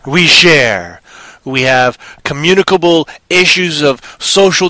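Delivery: slow, emphatic declaration; lightly hammed-up oration with drawn-out words; mock solemn speech. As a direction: declaim it slowly like a zombie manifesto. Mock speech as proud zombie.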